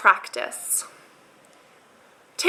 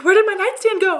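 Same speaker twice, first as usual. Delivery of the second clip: mock bewilderment; 8 semitones higher, 3 dB louder than usual. Acted bewilderment on waking.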